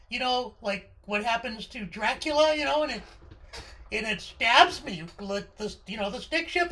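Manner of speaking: put-on worried kid. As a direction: fret like a nervous child. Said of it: "I said".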